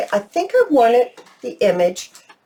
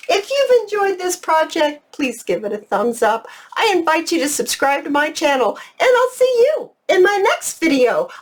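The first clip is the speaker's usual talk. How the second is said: much higher, beaming goodbye to viewers; bubbly sign-off; 10 semitones higher than usual. Real, not acted. Crafter thanking viewers and saying goodbye, high and bubbly. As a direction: sing out the farewell with delight.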